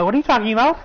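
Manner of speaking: imitating a desperate witch begging her friends; pleading. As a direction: plead with them not to do it, mock-frantic. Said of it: "Agatha's now like".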